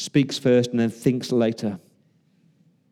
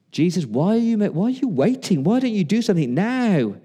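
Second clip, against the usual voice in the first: raised, insistent pleading questions; pleading complaint; 5 semitones higher than usual. Acted. Believer asking Jesus about life's storms, pleading. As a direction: plead impatiently, pitch swinging high.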